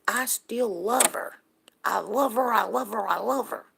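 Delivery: high-pitched retold plea of a heartbroken man; imitated brokenhearted neighbor. Neighbor confessing to her about his cheating wife, imitated heartbreak. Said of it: "he is brokenhearted about that".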